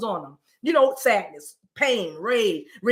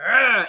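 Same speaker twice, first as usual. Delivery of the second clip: rebellious growl; 5 dB louder than usual. Retold or imitated. Showing listeners how you just rebelled, frustrated growl. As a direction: let out a short frustrated "ugh".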